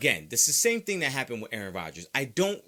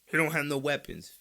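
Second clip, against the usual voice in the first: whiny objector; 3 semitones higher than usual. Acted. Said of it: "Now, you might say, like".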